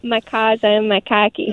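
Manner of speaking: put-on Boston accent, R's dropped. Shown as a demonstration. Caller trying on request, amateur Boston accent. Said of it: "Would you like to do a Boston accent".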